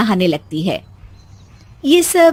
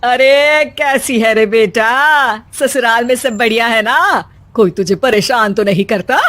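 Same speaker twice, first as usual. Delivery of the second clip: tender mother. Acted. Mother phones her daughter.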